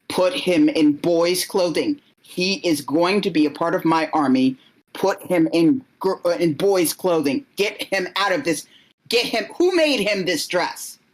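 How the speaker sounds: stern royal orders rising in pitch; an impatient king scolding, a touch heated; mildly angry king. Acted.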